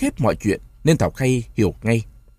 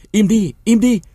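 loud, high yell to silence the crowd; shouted hush; 11 semitones higher, 5 dB louder than usual. A narrator's reading. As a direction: bark it out over the noise. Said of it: "Những tiếng quát".

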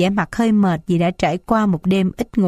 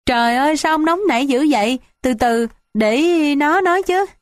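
tearful wailing; 7 semitones higher than usual. A narrator's reading. Mother stepping in to stop her husband, wailing. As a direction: plead in a high mock-tearful voice, drawing out the end. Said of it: "bù lu bù loa khóc".

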